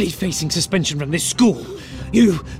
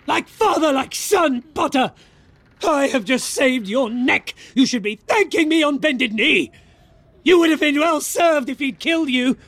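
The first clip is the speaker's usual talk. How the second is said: pompous shrill tyrant; 9 semitones higher than usual. Acted. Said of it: "looking madder than ever".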